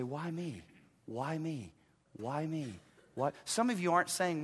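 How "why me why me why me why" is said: soft, low, humbled murmur; hushed disbelief at being chosen. Acted. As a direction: say it small, in humble wonder. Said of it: "you are humbled as you say".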